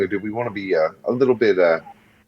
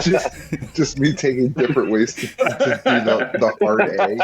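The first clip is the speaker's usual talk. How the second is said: laughing; 5 semitones higher than usual. Real, not acted. Laughing while explaining.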